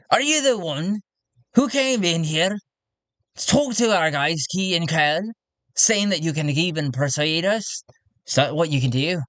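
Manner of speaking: lightly voiced blunt challenge; tactless tradesman. Tactless councilman challenging a newcomer, blunt character voice. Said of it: "but he's tactless".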